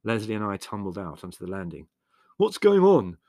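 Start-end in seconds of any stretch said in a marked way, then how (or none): 2.4-3.2 high, startled demand; loud demand. A narrator's reading. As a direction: demand an explanation on being woken by alarm. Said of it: "demanded Leslie".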